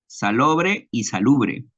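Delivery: slow, careful "salobre y salubre", each vowel clear; careful pronunciation. Shown as a demonstration. Student showing the class two similar words, slow and careful. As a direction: spell out "salobre y salubre" by sound, slowly. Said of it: "la pronunciación es parecida".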